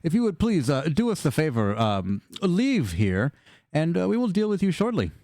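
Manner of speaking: measured, lilting politeness with small hesitations; a hint of a formal villain, polite and unhurried; lightly voiced courteous villain. Villain asking a favor of the party, lightly voiced courteous menace.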